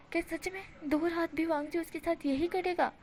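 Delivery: a mild shocked inner voice; shocked thought. Acted. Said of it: "विंग इस तरह से सोच रहा था".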